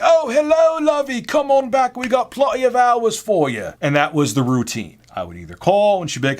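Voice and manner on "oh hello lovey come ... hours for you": put-on high, loud, gushing older British woman; sweet British auntie greeting in a piercing falsetto; Joan. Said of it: "sweet older British woman named Joan".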